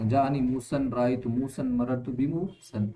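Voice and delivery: slow, careful Arabic examples with موسن; example recitation. Shown as a demonstration. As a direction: read each example sentence deliberately. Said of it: "موسن کہہ سکتے ہیں".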